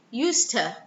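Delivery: "used to" squeezed into "yoosta"; elided form. Shown as a demonstration. Teacher shows what it becomes, "used to" as "yoosta". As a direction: say "used to" as one word with a weak "tuh". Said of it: "So it becomes".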